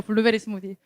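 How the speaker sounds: 블루베리 스무디 with Gyeongsang dialect pitch, said lightly; 블루베리 스무디 in a light Gyeongsang lilt, showing off the pronunciation; Gyeongsang-accented word. Shown as a demonstration. Preacher shows off his Gyeongsang 블루베리 스무디 to wake the congregation, playful. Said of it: "제가 방금 발음 잘했죠?".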